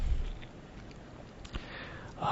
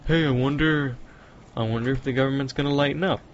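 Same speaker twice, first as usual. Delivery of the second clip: higher, softer musing voice; hopeful wondering thought; 4 semitones higher, 5 dB quieter, faster than usual. Retold or imitated. Citizen thinking about the government easing up, mock hopeful wondering. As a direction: voice a naive inner thought, softly and higher. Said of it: "every time you think".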